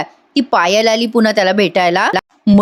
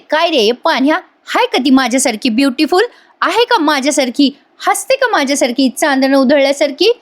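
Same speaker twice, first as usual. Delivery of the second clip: Payal; 4 semitones higher than usual. Retold or imitated. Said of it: "पायल म्हणते".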